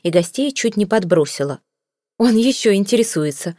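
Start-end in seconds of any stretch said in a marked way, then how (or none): 2.2-3.5 a mildly indignant lady's outcry; mild indignant cry, stress on Он; indignant exclamation. Acted. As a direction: exclaim it, a touch scandalised. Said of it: "воскликнула дама".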